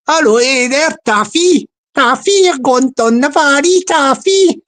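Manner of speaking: put-on sing-song Welsh accent; mock Welsh accent. Joker hailing an imagined Taffy, mock Welsh accent. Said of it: "a nickname for a Welsh guy".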